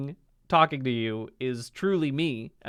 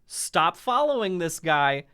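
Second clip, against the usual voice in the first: firm warning; 5 semitones higher than usual. Pretend. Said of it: "comment on the TikToks and say".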